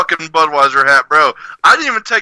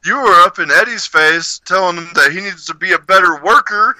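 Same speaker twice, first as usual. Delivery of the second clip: boss quoting him; 5 semitones higher than usual. Retold or imitated. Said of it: "and he was like".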